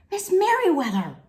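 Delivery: loud urgent call across the hall. Acted. McBee calls for the librarian, loud urgent call. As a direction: call her name loudly and urgently.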